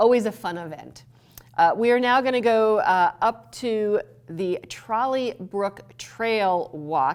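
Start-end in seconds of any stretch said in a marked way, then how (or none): 3.2-7.2 slow, deliberate, careful word-by-word delivery. Announcing the next stop on a tour of town events: saying it slowly. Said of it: "I say that slowly".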